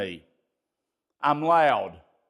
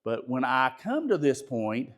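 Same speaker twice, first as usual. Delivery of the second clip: lowered, softened voice; calm demonstration; 5 semitones lower, 4 dB quieter than usual. Shown as a demonstration. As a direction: ease down into a composed tone. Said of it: "when you hear me talk like this".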